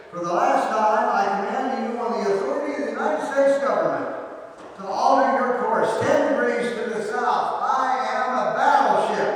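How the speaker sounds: shouted high and loud, words racing; furious scream. Retold or imitated. Captain screams his final order at the private, loud. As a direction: scream the order as if court-martial is coming. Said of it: "The captain screamed over the radio".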